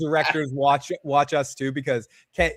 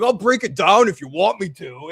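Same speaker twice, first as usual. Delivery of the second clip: higher, playful eager-helper voice; Randall impression; 4 semitones higher, 3 dB louder than usual. Co-host as Randall offering to break door, playful impression. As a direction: lightly put on a higher voice, offering muscle. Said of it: "he's like".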